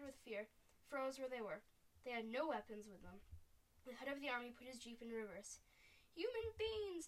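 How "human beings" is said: high, drawn-out storybook cry; high-pitched giant's yell. A narrator's reading. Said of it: "the Flesh Lampeter yelled".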